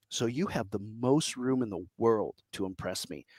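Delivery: hushed whispered aside; soft conspiratorial whisper. Real, not acted. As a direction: lean in and whisper it like a secret. Aside about zero expectations.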